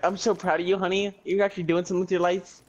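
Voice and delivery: mock-proud, lifted pitch; proud family member. Imagined relative praising a livestreamer, mock proud. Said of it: "invite your family members".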